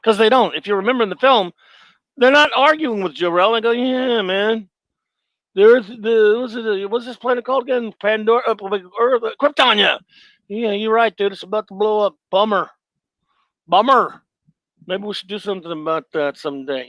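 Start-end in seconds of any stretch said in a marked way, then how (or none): 3.7-14.2 mock slacker council, a little raised in pitch; couldn't care less. Council agreeing with Jor-El that the planet is doomed, blithely indifferent. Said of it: "why don't they look like they give a shit?". 14.9-16.9 softer, mock-indifferent council; couldn't care less. Council member putting off the planet's doom, indifferent. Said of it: "why don't they look like they give a shit?".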